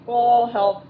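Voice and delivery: bright, loud eager offer; happy. A narrator's reading. Beth eagerly offering to help bake. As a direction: jump in gladly to help. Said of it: "Beth said happily".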